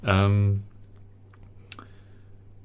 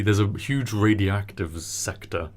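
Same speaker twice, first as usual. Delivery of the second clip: talking through burps; holding back a burp mid-sentence; slower than usual. Real, not acted. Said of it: "I'm burping 'cause of all this mocha".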